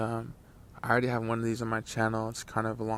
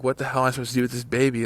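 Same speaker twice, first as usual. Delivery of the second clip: fast, louder panicked disbelief; mock panic; 6 dB louder, much faster than usual. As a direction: blurt it out fast, a little panicked. Panicked reaction in retold dream.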